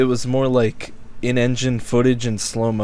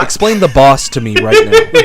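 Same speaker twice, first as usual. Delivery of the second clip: laughing; 10 semitones higher, 9 dB louder than usual. Real, not acted. Teasing challenge mid-laugh.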